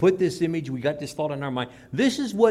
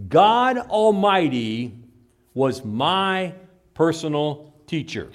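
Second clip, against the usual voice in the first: louder, slow proclamation; mock street-corner claim; 3 semitones higher, 5 dB louder, slower than usual. Stranger on the corner proclaiming to passersby, slow and loud. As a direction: announce it like a man on a corner. Street preacher imagined at Harbor Days.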